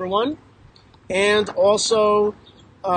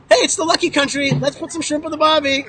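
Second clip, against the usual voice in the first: mock Aussie cheer; 5 semitones higher than usual. Mocking quote of Australian settlers.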